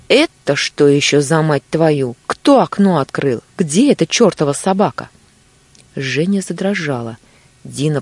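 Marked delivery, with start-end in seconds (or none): 0.1-5.1 loud furious shouting; angry yell. Acted. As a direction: bellow it out in rage. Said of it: "раздался её вопль". (гневный вопль)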